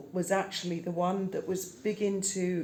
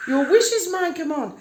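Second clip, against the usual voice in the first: genie; 7 semitones higher, 7 dB louder than usual. Pretend. Offering to make food.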